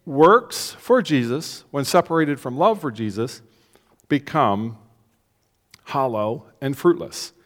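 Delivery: "Works for Jesus" drawn out very slowly; slow emphatic repeat. Shown as a demonstration. Preacher repeating the key line for the church, slow and weighty. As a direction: lean on each phrase, spacing it out. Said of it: "Do you believe that?".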